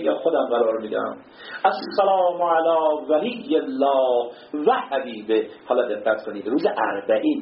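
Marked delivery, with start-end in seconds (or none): 1.6-5.5 ziyarat recitation. Acted. Reciting ziyarat greeting slowly.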